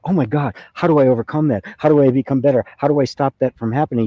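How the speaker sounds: lightly acted anxious self-talk, one worry after another; mock worry. Voices someone fighting their karma.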